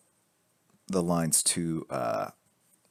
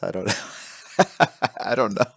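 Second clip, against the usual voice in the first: laughing through the words; 3 semitones higher, 7 dB louder, slower than usual. Real, not acted. Streamer answering a teasing chat comment, laughing. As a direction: chuckle as you answer.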